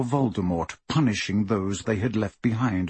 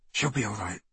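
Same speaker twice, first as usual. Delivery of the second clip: softer, soothing reply; gentle reassurance; 8 dB quieter, faster than usual. A narrator's reading. Bill to Harry about Hermione, softly reassuring. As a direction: reassure quietly.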